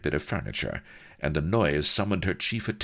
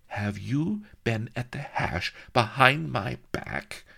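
suspicious; 7 semitones higher than usual. A narrator's reading. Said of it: "Prizlin was suspicious".

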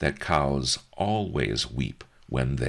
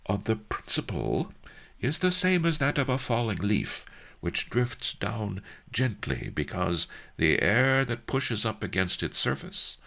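high, lightly voiced old master explaining; explaining old sage; 6 semitones higher than usual. A narrator's reading. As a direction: lecture it patiently. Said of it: "Master Li explained".

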